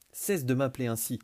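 loud threatening snap; menacing. Acted. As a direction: warn him off. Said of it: "cracha Raziel menaçante". (menace forte)

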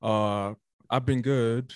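munching between words; chewing while talking. Real, not acted. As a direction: mouth full of snack. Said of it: "I'm munching on the side".

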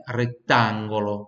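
retangolo with a wide open A. Shown as a demonstration. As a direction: stretch the open A in retangolo, slowly. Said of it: "o A sempre bem aberto".

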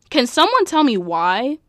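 bewildered, pressing for an answer; baffled plea. Real, not acted. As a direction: ask it in loud disbelief. Baffled plea about the fight.

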